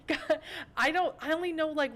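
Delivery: high, loud, through laughter; real giggly outburst; laughing. Real, not acted. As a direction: protest while cracking up. Laughing at own British joke.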